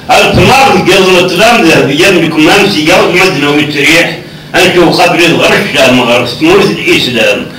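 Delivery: lightly measured poem recitation; verse recitation. Acted. Guest reciting an old verse to the interviewer, recitation. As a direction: recite the verse steadily, lines falling at the end.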